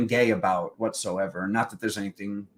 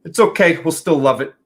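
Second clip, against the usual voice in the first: deflated grandma; 4 semitones higher, 9 dB louder than usual. Retold or imitated. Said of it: "She goes".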